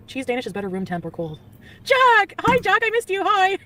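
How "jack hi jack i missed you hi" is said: high, loud, gushing hello to the dog; light up and call his name like a reunion; excited greeting. Real, not acted. Greeting her dog Jack after time away, thrilled and high.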